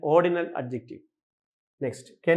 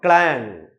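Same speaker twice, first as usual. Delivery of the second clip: slow, ringing "ക്ലാങ്" with a stretched vowel; imitated door clang; 4 semitones lower, 4 dB louder, much slower than usual. Shown as a demonstration. Teacher imitating a door closing, drawn-out clang. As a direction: draw out "ക്ലാങ്" like a door shutting. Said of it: "door അടയുമ്പം".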